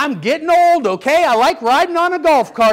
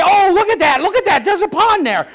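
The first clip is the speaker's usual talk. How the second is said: higher-pitched imitation of excited children; excited kids; 5 semitones higher than usual. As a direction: mimic kids spotting something thrilling. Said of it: "they're all excited talking about the pond".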